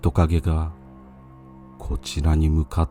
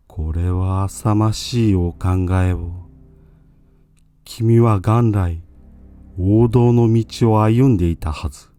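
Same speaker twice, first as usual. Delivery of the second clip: urgent pleading monk; 3 semitones higher than usual. Acted. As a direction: press him with tearful urgency.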